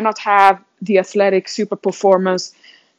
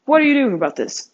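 self-coaching challenge. Retold or imitated. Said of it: "That's how I coach myself".

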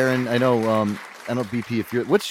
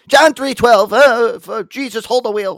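high, loud sudden outburst; imitating a blurted tic; 12 semitones higher, 5 dB louder, slower than usual. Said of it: "she's like".

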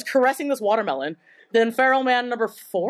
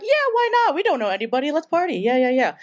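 hyped party cheer; 4 semitones higher than usual. Retold or imitated.

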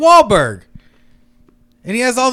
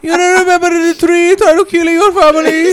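bad Hispanic accent; 6 semitones higher than usual. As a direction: wail it in a terrible Hispanic accent. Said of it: "the worst Hispanic accent".

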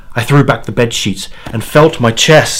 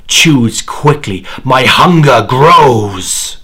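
demon's demand; 3 semitones higher, 6 dB louder, slower than usual. Acted. Demon presses for an answer.

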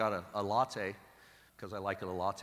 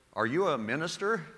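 quoted woman asking; 7 semitones higher, 5 dB louder than usual. Retold or imitated. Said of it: "she goes".

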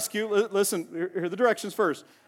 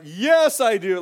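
loud high mock shout; retold shout; 4 semitones higher, 7 dB louder, much slower than usual. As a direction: yell it like an eager churchgoer. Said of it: "somebody shouted louder than praise and worship".

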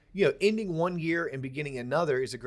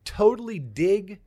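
higher-pitched, slowing, joyful emphasis; audible joy; 5 semitones higher, 5 dB louder than usual. Real, not acted. Podcaster reliving productive days at home, joyful. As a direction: let the joy lift each phrase. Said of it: "people can hear the joy in your voice".

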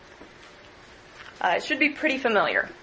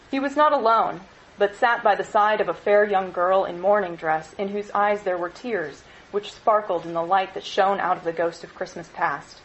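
measured read-aloud narration; story narration. A narrator's reading. Lecturer reading Dickens to students, steady narration. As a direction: read the scene to the class, evenly.

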